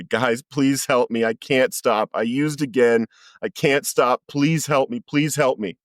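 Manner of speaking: imploring, increasingly high re-enactment; retold desperate plea. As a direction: beg the group for help. Begging the group for help.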